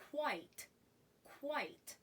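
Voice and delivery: "quite" said alone as one syllable; pronunciation model. Shown as a demonstration. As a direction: model "quite" for learners to repeat, with a pause after. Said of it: "Repeat with me".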